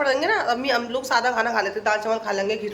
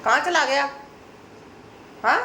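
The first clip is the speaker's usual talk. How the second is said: loud, higher call searching for someone; 5 semitones higher, 3 dB louder than usual. Real, not acted. Mother calling for her son around the house, loud. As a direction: call out where did he go.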